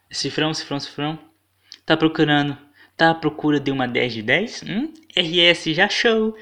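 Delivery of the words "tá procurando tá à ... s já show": voz afetada. Retold or imitated. Lê perfil em voz sedutora.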